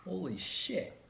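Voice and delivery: choked cough then gasp; coughing from sour candy. Real, not acted. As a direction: cough hard at the sour taste. Coughing after tasting sour spray.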